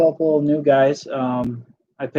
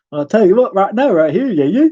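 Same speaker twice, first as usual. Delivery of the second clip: fast, loud put-on Southern drawl; 6 semitones higher, 5 dB louder than usual. Showing a voice that cracks up a girlfriend: fast Southern drawl voice. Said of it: "my Southern drawl, drawl voice".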